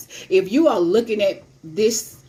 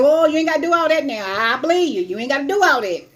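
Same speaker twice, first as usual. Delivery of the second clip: flustered laughing refusal; 6 semitones higher, 3 dB louder, faster than usual. Retold or imitated.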